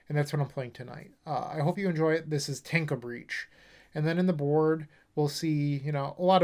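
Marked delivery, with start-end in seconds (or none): 2.6-3.5 a hint of Boston on the deck name; Boston accent. Shown as a demonstration. Signing off the deck intro in a light Boston accent. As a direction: drop the R, Boston style. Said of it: "say it like you're from Boston".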